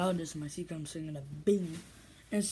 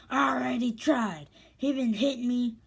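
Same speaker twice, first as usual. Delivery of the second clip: imitated complaint; 5 semitones higher, 3 dB louder than usual. Acts out beaten girl's complaint.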